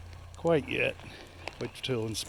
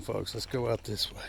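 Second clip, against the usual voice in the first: normal talking voice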